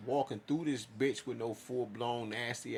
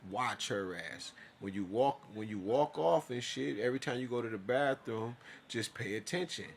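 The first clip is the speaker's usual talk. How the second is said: inner warning voice. Retold or imitated. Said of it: "I'm talking to myself like".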